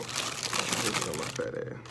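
whispered aside. Real, not acted. Muttered aside about diet.

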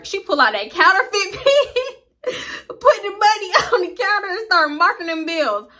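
high mock-prissy cashier voice, slowed at first. Storyteller mimics coworker marking bills with pen, mock-prissy. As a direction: play the snooty cashier checking bills.

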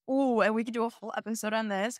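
excited. Real, not acted. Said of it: "this makes me so excited".

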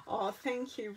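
normal talking voice

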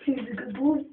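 high, sing-song praise for the pet; pet talk. Real, not acted.

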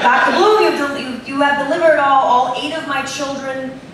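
a lightly done, bad Boston accent. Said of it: "this is a bad Bostonian accent".

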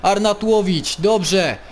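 commentary climbing in pitch; football commentator building up; live play-by-play. Acted. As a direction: call the passes with rising excitement.

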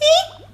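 very high squeaky eek; a tiny startled squeal; high little surprised squeak. Acted. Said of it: "he made a surprise little sound".

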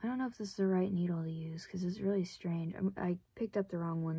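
hushed, half to herself; whispered aside. Real, not acted. Puzzling over the odd needle, in a whisper. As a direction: whisper it while peering at the needle.

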